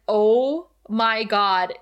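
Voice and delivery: slow, drawn-out stunned oh my God; mock shock, slowed right down. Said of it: "And I was like".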